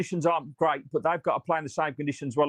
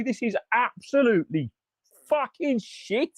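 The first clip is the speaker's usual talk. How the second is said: disgusted; 7 semitones higher, slower than usual. Real, not acted. Fan ranting after a shock loss.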